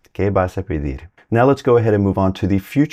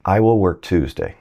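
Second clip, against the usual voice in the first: I will work Tuesday with will leaned on; weighted "will" hinting at something more; stress on will. Shown as a demonstration. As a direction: press on "will". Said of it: "That one sounded different".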